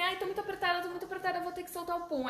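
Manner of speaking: high, playful mock desperation; hamming it up for the kids; pretend urgency. Teacher pretending to need to fart, mock urgent. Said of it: "Aí eu falo assim".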